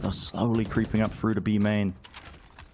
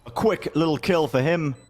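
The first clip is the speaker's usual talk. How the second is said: esports caster. Real, not acted. Live play-by-play casting.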